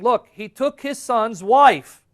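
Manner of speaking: loud, high, drawn-out jeer; mock-scandalized jeer; mocking crowd. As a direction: act out people mocking him loudly. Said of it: "started mocking him, saying".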